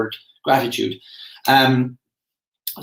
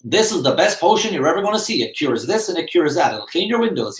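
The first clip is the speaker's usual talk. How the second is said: raised, pitching huckster voice; snake-oil salesman; 5 semitones higher than usual. Retold or imitated. Mock salesman on a cart hawking a potion to the crowd. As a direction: sell it like a Wild West potion peddler. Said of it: "he's saying".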